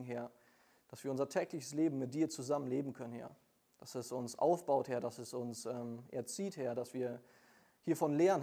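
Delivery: earnest prayer, each line closed with Herr; leading the congregation in prayer; spoken prayer. Acted. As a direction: pray to the Lord in a steady, devoted flow. Opening prayer before sermon.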